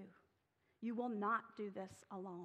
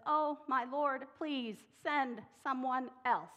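slow, louder drawn-out plea; begging Moses; 2 semitones higher, 7 dB louder, slower than usual. Acted. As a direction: drag it out like a reluctant servant. Moses begs God slowly.

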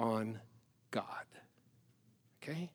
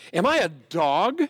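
roar; 3 semitones higher, 6 dB louder than usual. Retold or imitated. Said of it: "he roared at David".

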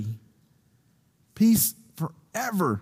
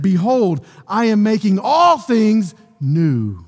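raised, emphatic scripture climax; slow, higher-pitched proclamation; throne proclamation; 4 semitones higher, 4 dB louder, slower than usual. A narrator's reading. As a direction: declare it grandly, slowing at the end. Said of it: "he who is seated on the throne said".

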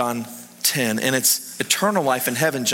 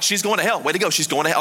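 exasperated mock complaint, slightly raised pitch; mildly hammed-up indignation; retold anger; faster than usual. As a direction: grumble in replayed frustration. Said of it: "Like, I was so mad".

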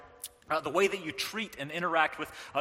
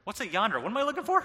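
put-on rising higher into a confused kid's whine; puzzled daughter; 4 semitones higher than usual. Daughter asking dad what a yonder is, puzzled and rising. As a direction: play the baffled little girl. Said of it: "my daughter's like".

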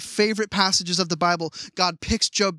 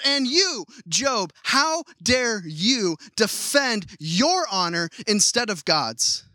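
higher, slow accusing challenge; rounding on Job; 3 semitones higher, much slower than usual. Retold or imitated. Elihu turning on Job, slow accusing rebuke. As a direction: spin around and accuse him slowly. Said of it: "Elihu whips around and he says".

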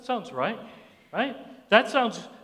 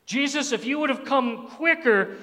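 higher-pitched complaint to Jesus; reproachful prayer; 6 semitones higher than usual. Acted. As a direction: mildly accuse him in prayer. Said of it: "aren't we thinking that same thing".

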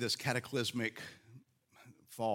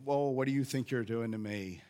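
mock French accent, hammed-up taunting; outrageous French accent. Jericho people jeering from the walls, in an outrageous French accent. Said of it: "audacious French accent".

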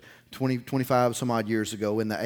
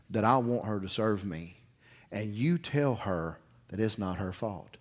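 gentle voice of the Lord; 3 semitones lower than usual. Acted. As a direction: speak it like a loving father reassuring a frightened child. The Lord speaking gently to him.

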